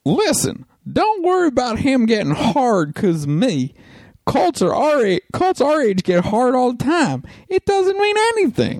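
high, slow put-on Japanese accent. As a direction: read it in a thick Japanese accent.

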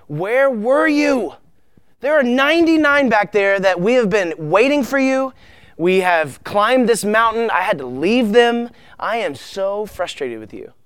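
hammed-up, high-pitched angry reproach; frustrated scolding. Acted scolding of the lost sheep.

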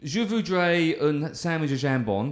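hammed-up French accent, slowing on the French words; exaggerated mock French accent. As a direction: put on a cartoon French accent for the husband chat. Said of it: "very racist French accent".

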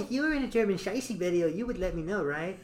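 lightly voiced child wheedling a parent; Cartman. Cartman questioning his mom, lightly mimicked wheedling. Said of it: "Cartman goes".

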